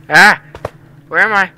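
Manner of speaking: high frightened yelp; startled scream. Real, not acted. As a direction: jump scare shriek, then panicked. Sudden fright in horror game.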